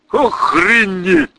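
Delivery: медленно, нараспев; растяни слово во всю длину; протянул. A narrator's reading. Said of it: "протянул Владимир". (медленно протянутое «Охренеть»)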